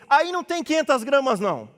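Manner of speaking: loud, high challenge to the butcher; blunt mother's complaint. Retold or imitated. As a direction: imitate an outspoken mother calling out a cheat. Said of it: "Falava assim mesmo com o cara".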